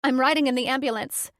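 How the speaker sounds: insist, won't take no; demanding. Acted. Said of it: "I demanded".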